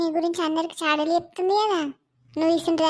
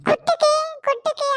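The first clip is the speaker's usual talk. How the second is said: excited egging on; 8 semitones higher, 3 dB louder than usual. Acted. Onlooker egging on fight.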